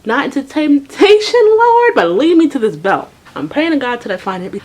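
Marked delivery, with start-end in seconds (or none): 0.0-3.1 loud, high, drawn-out plea to the Lord; dramatic prayer. Retold or imitated. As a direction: pray it out like a desperate preacher. Dramatic prayer while searching.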